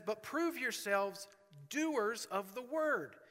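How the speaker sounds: preacher reading James aloud; scripture reading. Acted. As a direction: read the verses with weight.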